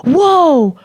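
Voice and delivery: high, startled group reaction; mock shocked. Imitates friends' shock at the slap.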